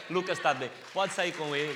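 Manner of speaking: loud, laughing relief; joyful laugh. Real, not acted. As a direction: laugh out the good news. Doctor says son is well.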